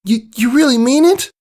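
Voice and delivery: high, hopeful filly voice; a young pony barely believing it; eager filly voice. Acted. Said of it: "Scootaloo perked up".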